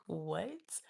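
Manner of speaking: drawn-out "what" with a rising swoop; incredulous, questioning what; baffled what. Retold or imitated. Student reacting to his request for a hug, baffled.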